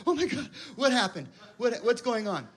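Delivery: high, alarmed mock panic; panicked surprise. Seeing missed calls, mock panicked surprise. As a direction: gasp at the screen in mock alarm. Imagined phone reaction, high voice.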